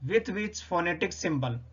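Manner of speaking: very slow, word-by-word question; slow teacher's reading. Shown as a demonstration. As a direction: read the question out like a dictation. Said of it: "the word think begin".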